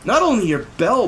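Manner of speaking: cried. Acted. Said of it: "Bartholomew cried".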